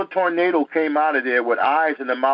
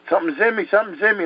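higher-pitched reenacted alarm; mild mock panic; retold panicked yelling; 6 semitones higher, much faster than usual. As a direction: act out a frightened child without really shouting. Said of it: "I was screaming and yelling".

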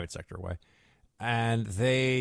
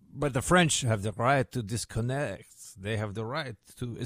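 mock French accent. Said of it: "some of my French starts to turn into Transylvanian".

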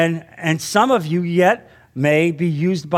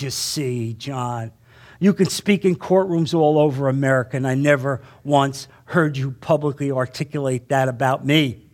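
low, soft inner voice of God, much lower and quieter; 7 semitones lower, 3 dB quieter than usual. Retold or imitated. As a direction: hear God speak softly and low inside you. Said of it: "I distinctly heard these words".

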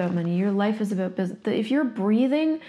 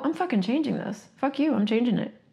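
determined demand. Shown as a demonstration. Showing listeners what a real choice sounds like, determined. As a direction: put your foot down, no wiggle room. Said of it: "That's a choice. That's a demand".

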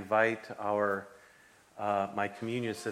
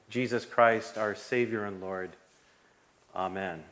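prayer. Acted. Pastor prays over offering.

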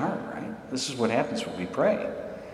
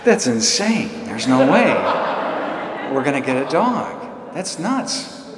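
higher, slow laughing protest; laughing disbelief; 5 semitones higher, slower than usual. Retold or imitated. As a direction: laugh off the crazy idea. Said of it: "I'm like".

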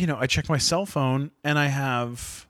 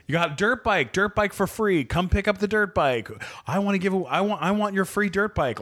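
higher-pitched mock pestering voices; eager emailers; 6 semitones higher than usual. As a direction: imitate one eager buyer after another.

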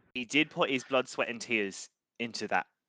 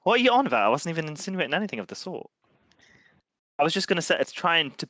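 indignant; 7 semitones higher, 4 dB louder, faster than usual. Acted. Player protesting the dancer.

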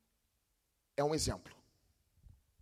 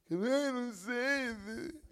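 put-on slow, higher, whiny emo kid; mopey emo teen; 5 semitones higher, 8 dB quieter, much slower than usual. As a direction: drag it out like a sulky teen. (imitando um adolescente emo choramingando, bem devagar)

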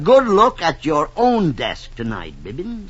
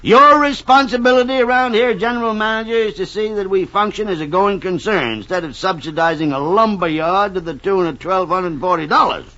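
angry tirade; 5 semitones higher, 4 dB louder than usual. Acted. Boss scolding the general manager over desks, loud and angry. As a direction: dress him down hard.

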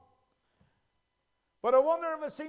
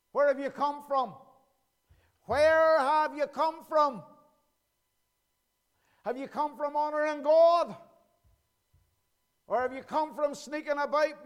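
preaching; 3 semitones higher, 4 dB louder than usual. Acted. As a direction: thunder God's question at them. God's voice preached.

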